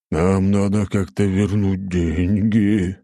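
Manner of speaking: slow, drawn-out whine; moaning. Acted. Husband needing the money back, moaning. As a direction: moan it out slowly and miserably. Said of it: "простонал Аленус".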